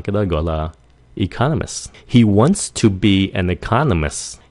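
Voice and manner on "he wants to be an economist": natural speed. Shown as a demonstration. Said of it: "Nếu nói nhanh".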